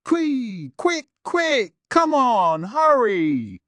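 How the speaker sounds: put-on high, loud, rushed pleading girl voice; a desperate girl begging him to hurry; frantic high girl. A narrator's reading. Darkness begging Kazuma to open the door, frantic high pleading.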